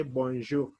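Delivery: "bonjour" with the final R barely sounded; French pronunciation. Shown as a demonstration. Teacher shows students how to pronounce the greeting, French pronunciation. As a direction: say "bonjour" as bon-zhoo. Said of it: "when you pronounce it".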